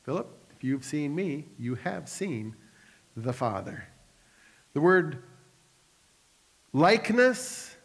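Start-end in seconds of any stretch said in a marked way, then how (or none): 0.0-3.9 softer, calm and tender reply; gentle Jesus. Acted. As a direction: answer him gently, slowing at the end. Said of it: "What did Jesus tell him?".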